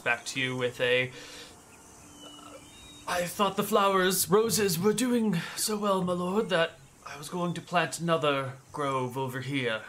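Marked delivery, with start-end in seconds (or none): 3.1-9.8 put-on higher, fussy old servant; elderly butler pleased with his roses. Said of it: "you've only got one butler voice".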